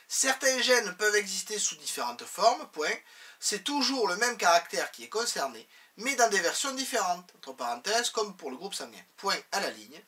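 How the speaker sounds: dictating. Shown as a demonstration. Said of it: "teacher dictates the course notes".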